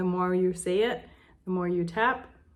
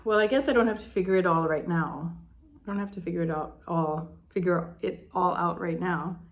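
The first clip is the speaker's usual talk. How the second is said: softening, calmer. Shown as a demonstration. Showing viewers the softened round, gently calm. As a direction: ease into calm as you speak. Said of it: "speak what's true for you when you soften it".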